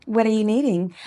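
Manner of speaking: polite, helpful call-answering voice; professional phone voice. Shown as a demonstration. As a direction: greet a caller as if at work. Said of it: "I can tell you have one".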